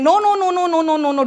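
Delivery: lightly mocking no no no; mock refusal. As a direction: brush it off like a naysayer.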